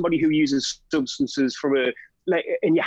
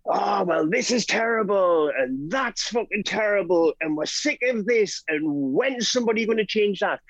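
high, slow whingeing; mock the people who only moan; lightly voiced whinger; moaning complainer; 4 semitones higher than usual. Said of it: "people who go".

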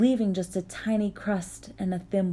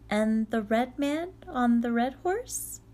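put-on young girl voice; 5 semitones higher than usual. Vasilisa questioning.

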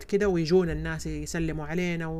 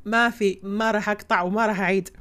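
annoyed at interruptions; 5 dB louder than usual. Real, not acted. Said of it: "خامس اتصال يجيني".

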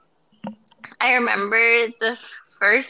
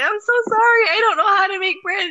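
mock apology; 10 semitones higher, 4 dB louder than usual. Apology quoted to Tam.

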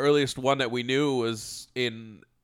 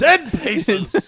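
dramatic duel call; 12 semitones higher, 9 dB louder than usual. Retold or imitated. Mock duel announcement.

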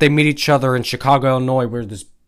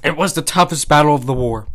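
emphatic, louder storyteller reading; story narration; 3 dB louder than usual. A narrator's reading. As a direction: read the old war tale out with relish. Reads a story aloud.

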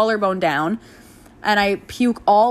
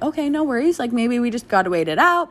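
higher, breezy optimism; breezy reassurance; 5 semitones higher than usual. Retold or imitated. Mother tells doctor they can wait, breezy optimism. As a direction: act out brushing off the bad news.

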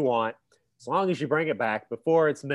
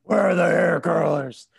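bad Batman impression; 3 dB louder than usual. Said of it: "the worst Batman impression".

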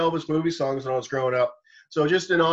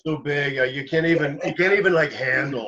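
stoner voice. Retold or imitated. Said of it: "you sound so baked".

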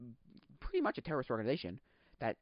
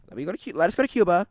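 high, loud, fast retake of the demand; loud acted demand; 6 semitones higher, 10 dB louder, faster than usual. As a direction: shout the demand like the kidnappers.

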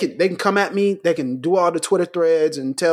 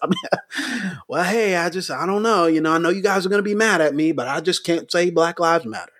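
casual pastor. Retold or imitated. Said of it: "pastors with hands in pockets, real casual".

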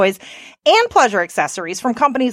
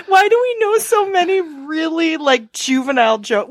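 snotty crying; 4 semitones higher than usual. Real, not acted. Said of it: "I gotta wipe my face here".

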